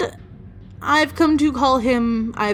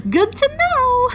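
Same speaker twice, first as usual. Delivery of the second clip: laughing; slower than usual. Real, not acted. Laughing after ghost cat scare.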